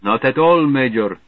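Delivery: a fake Russian accent gone Lugosi; bad Russian accent. Slothrop posing as Russian to the Major, Lugosi-like Russian accent. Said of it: "trying for a Russian accent which comes out like Bela Lugosi".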